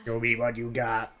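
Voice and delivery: lightly voiced giant head from Rick and Morty; a hint of the booming giant head's demand; quoting the Rick and Morty giant head, lightly voiced; Rick and Morty quote. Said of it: "Rick and Morty".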